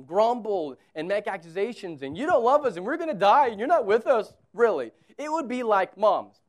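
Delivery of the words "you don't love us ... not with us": whining accusation. Acted. Grumbling Israelites voiced.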